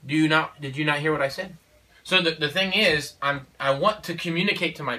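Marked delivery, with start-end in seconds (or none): 0.1-1.6 stern question. Retold or imitated. Father scolding child.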